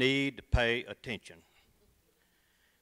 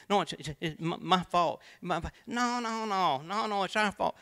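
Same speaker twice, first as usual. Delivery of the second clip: flustered apology; 5 semitones higher than usual. Acted. Flustered preacher insisting.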